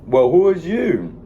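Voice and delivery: put-on high, loud, slow old lady voice; imitating a questioning older woman; old lady asking. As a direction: play the stern older lady, drawn out. Old lady voiced in retold dream.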